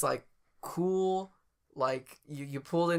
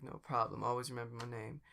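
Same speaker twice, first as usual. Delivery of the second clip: soft, low, easy attendant; calm, understated reassurance; really calm; 4 semitones lower, 8 dB quieter than usual. Acted. Attendant answering grateful customer, really calm. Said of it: "really calm and so".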